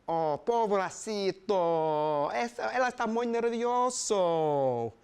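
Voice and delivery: slow, cooing woman's voice; a lightly voiced cooing woman; Esperanza cooing. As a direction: coo over him like a nervous puppy.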